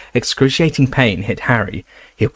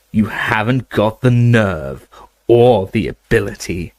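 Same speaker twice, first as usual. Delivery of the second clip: sneering taunt. Acted. Snape taunting Harry.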